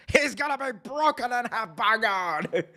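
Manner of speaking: high commentator cry, slightly off-voice; Jim Ross impression. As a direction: mimic a wrestling announcer's call. JR call right after shoutout.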